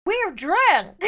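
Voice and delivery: put-on high, loud drunk character; drunk passenger. Drunk passenger character announces state.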